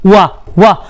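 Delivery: वा repeated with an opening w sound; demonstrated pronunciation. Shown as a demonstration. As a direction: sound out वा twice, separately. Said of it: "pronunciation आप देखो कैसा होता है". (वा में डब्ल्यू की आवाज दिखाते हुए)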